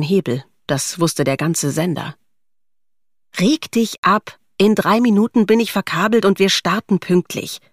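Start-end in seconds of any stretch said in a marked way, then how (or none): 3.4-7.6 higher-pitched, lightly acted brush-off; unimpressed employee talking back; dismissive retort. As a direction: tell an angry boss to back off. Nadine brushes off boss's scolding.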